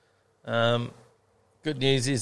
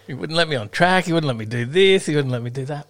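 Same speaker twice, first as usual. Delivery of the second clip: raised-pitch list of grievances; mock complaining; 5 semitones higher, 4 dB louder than usual. Participants complaining about the official, mock whinge.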